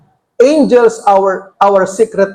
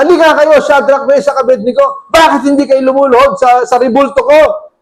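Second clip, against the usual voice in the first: higher-pitched, indignant royal demand; mildly angry king summoning his subjects; acted-out angry reproach; 4 semitones higher than usual. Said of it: "galit na galit si Nebuchadnezzar".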